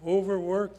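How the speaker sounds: overwork set apart and emphasized; stress on overwork. Shown as a demonstration. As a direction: point out the word overwork firmly. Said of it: "Notice the word".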